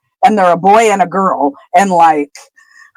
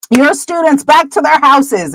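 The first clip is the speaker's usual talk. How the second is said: higher, slower headmaster's order; Dumbledore; 5 semitones higher than usual. Acted. Headmaster sends students to their houses, lightly acted commanding tone. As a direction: give the order slowly, lightly acting the headmaster. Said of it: "Dumbledore silences everybody and then orders".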